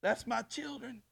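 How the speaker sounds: high, loud, laughing exclamation; joyful God. Acted. God delighting in his children, laughing shout. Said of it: "God looks down and goes".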